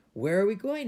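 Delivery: loud, high yelled question. A narrator's reading. Fuzu yelling as he boards the carriage, loud yell. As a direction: call it out loudly, pitch rising high. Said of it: "he yelled".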